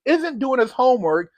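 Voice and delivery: "isn't" put in place of "ain't" with a mock-proper fix; dry self-correction saying "isn't"; self-corrected grammar. Shown as a demonstration. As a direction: correct yourself, a touch prim, on "isn't". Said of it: "excuse me".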